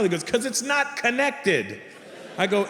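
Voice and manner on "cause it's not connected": higher and very slow; high, drawn-out exasperation; exasperated explanation. Retold or imitated. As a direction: spell it out slowly for a fool. Exasperated doctor explains the obvious.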